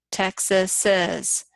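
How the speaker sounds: "Texas says" slowly, as TEX-as-iz; slow Texas's. Shown as a demonstration. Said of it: "still apostrophe S".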